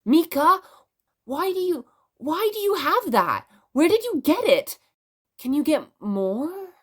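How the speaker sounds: put-on high, eager little girl firing off questions; excited young girl. Young girl eagerly pressing Mika about the toy, high and excited.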